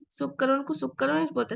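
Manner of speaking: सुक्करुन said with a short u after s; first vowel u in सुक्करुन, not a; careful Arabic sukkarun; correct sukkarun. Shown as a demonstration. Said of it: "सक्करुन बोले तो wrong".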